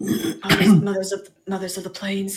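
soft, quiet plea to the Mothers; hushed prayer. Acted. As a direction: murmur a humble prayer. Character praying to Mothers.

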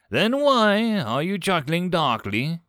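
high, slow, emphatic demand. A narrator's reading. Kolch confronts Steve about his chuckling, demanding. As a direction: press the question, each word weighted. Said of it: "Kultich demanded".

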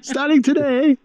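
high mock drill sergeant shout. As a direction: bark the order like a hammy sergeant. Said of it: "a drill sergeant pacing".

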